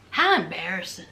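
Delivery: deep, dry mock embarrassment; low mock pity. Recapping reality TV, low mock-pitying aside.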